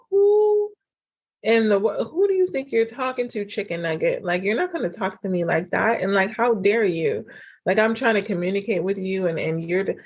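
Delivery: imitating her old offended self telling him off; retelling how she would have snapped at her partner in offense; offended outburst. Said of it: "I would have gotten so offended".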